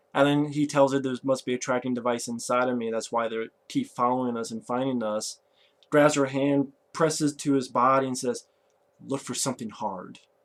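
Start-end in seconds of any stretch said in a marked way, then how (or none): 9.1-10.2 dead-level, flat whispered delivery. Retelling a movie scene, the hero's line to her, retelling a deadpan line. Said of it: "Just deadpan".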